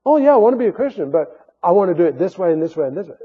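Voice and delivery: fast, breezy mimic of a choosy convert; hammed-up would-be Christian setting terms; mock bargaining. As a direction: rattle off the conditions lightly. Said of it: "Sometimes that's what people do".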